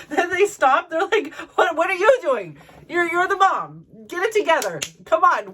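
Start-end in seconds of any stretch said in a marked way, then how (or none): 1.5-5.5 laughing. Retold or imitated. Kids scolding mom, laughing.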